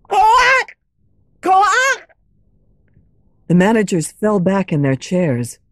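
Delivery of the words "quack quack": high, honking quack of a croaking toad; squawking toad noise; toad croaks. A narrator's reading. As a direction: croak it out like a toad stuck in the throat. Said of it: "the toad started again".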